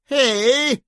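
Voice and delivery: loud sharp call from above; shouted. Acted. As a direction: cut the heckler off with a shout. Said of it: "shouted Bunny".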